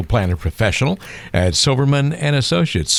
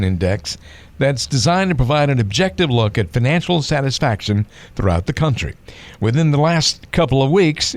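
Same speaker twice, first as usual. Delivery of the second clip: newscaster voice; 3 semitones higher than usual. Pretend. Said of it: "try and sound like a newscaster".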